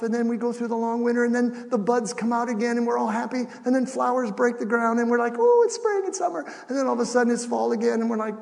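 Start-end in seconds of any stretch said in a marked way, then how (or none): 5.4-6.5 high-pitched gush of excitement; mock delight. Preacher mimics everyone greeting spring, giddily excited. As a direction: squeal it, overjoyed at the season.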